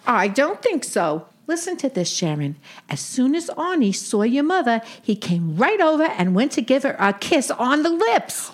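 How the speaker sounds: put-on old Brooklyn aunt with Yiddish lilt; yiddish accent. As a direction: play a wisecracking Jewish aunt. Sadie role continues.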